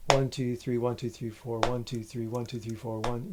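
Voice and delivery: quick count bunched in threes and fours; uneven counting. Shown as a demonstration. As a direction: count in lopsided groups, running each group together. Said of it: "It can't be".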